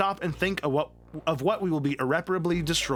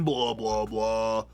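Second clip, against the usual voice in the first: ordinary delivery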